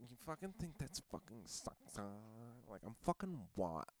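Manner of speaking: imitating a put-on seductress, very soft; hushed, mock-sultry come-on; mock sexy talk. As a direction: send up her sexy act. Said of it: "trying to be sexy about it".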